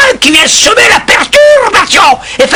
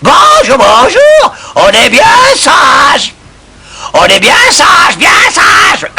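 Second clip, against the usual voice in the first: parrot talk; slower than usual. Acted. Parrot practising human words.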